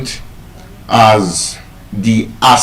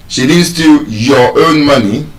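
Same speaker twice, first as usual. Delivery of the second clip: "your own" lifted as a contrast; stress on YOUR OWN; 3 semitones higher than usual. Shown as a demonstration. Teacher contrasts whose money it was, stress on "your own". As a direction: lean on "your own" to rule it out. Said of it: "The emphasis is that it was my money".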